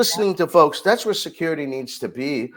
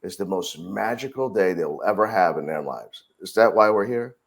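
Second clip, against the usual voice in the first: calm reassuring; 4 semitones lower than usual. Retold or imitated. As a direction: talk him down gently, like you truly want to listen. Manager soothing angry park guest.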